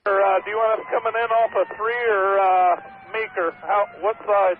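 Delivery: high, loud call over the siren; shouting into the radio; urgent firefighter radio. Real, not acted. Truck radios in on the approach.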